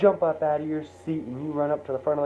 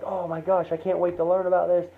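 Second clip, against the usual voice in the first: higher-pitched, quick gush of excitement; excited kid; 5 semitones higher than usual. Acted. Kid tells mom about the assignment, excited. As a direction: play a kid bursting to tell mom. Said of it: "you're so excited for this assignment".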